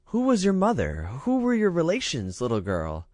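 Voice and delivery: high, gently questioning queen; curious queen. A narrator's reading. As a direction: ask the waif kindly.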